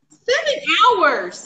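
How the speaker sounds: high, stretched-out exclamation; slow, emphatic astonishment; amazed disbelief. Real, not acted. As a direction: marvel at the distance, drawing it out. Amazed at the driving distance.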